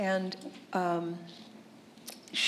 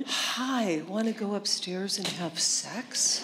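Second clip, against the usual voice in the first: seductive soft voice; slower than usual. Retold or imitated. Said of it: "this sort of seductive, soft little voice".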